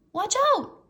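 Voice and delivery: high, loud teasing warning; loud mock warning. A narrator's reading. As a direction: wave it at him playfully. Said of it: "warned Annie".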